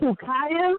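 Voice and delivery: shocked, stunned, high-pitched, totally disbelieving tone. Asking who is meant, sounding totally shocked. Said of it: "why do you sound like you are just in total shock".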